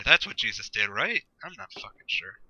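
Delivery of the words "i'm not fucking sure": soft unvoiced aside; whisper. Real, not acted. To the viewers as a joke, a soft whisper aside. Aside about Jesus and wine.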